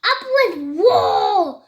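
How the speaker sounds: rally them, booming out the last word; shouted cheer. A narrator's reading. They cheer for war, shouting. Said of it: "And they shouted".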